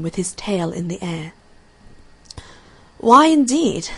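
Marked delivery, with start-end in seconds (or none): 3.0-3.9 high, loud rise-and-fall exclamation; butterfly's exclamation. A narrator's reading. Butterfly echoes the lizard's question, high exclamation. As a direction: exclaim it brightly, pitched well up. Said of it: "said a butterfly".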